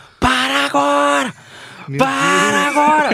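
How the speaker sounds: mock sudden cry, very high, very slow, drawn out. Retelling standing up in the middle of the highway: retelling a shout. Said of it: "eu levantei e dei um grito".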